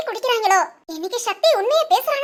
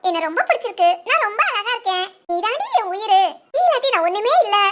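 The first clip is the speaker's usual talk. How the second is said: imagined lovestruck confession. Pretend. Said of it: "உண்மையை பேசுனா என்ன பேசுவான்".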